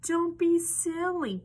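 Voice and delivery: high, loud, slowed scolding hens; barking chickens. A narrator's reading. Chickens tell Little Piglet off for fearing Wolf, high barked scolding. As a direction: scold loudly as indignant hens. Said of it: "barked the chickens".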